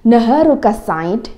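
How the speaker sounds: careful teacher demo of Naharuka Said; slow model phrase. Shown as a demonstration. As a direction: model Naharuka Said clearly for the class.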